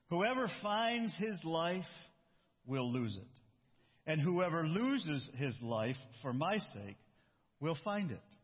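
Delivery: slow, measured Bible verse reading; solemnly paced scripture. Acted. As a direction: read the verse aloud deliberately, with space between phrases. Reads a scripture verse aloud.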